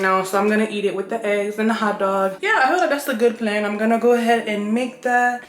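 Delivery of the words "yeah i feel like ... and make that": breathless after a run; panting between words; out of breath. Real, not acted. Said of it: "I'm still out of breath from running".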